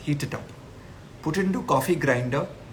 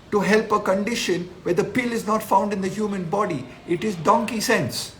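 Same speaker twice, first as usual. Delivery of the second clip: higher, heated outraged rant; worked-up rant; 5 semitones higher than usual. Real, not acted. Ranting at a doctor's advice about coffee, outraged and higher. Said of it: "I get really emotional".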